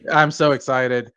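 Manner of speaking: slow, flat deadpan "so excited"; slow monotone. Pretend. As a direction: drag it out with no excitement. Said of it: "as you can tell in my monotone voice".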